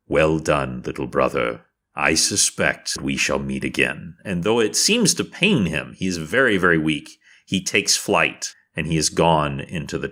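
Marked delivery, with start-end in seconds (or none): 0.1-4.2 low, solemn parting words; lightly voiced noble dragon, pitched down; weakened dragon's farewell. Dragon bidding little brother farewell, low and solemn. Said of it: "And he says".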